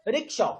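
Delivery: "rickshaw" with weight on "shaw"; stress on shaw. Shown as a demonstration. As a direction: land firmly on the second syllable of "rickshaw". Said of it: "shaw is getting emphasized here".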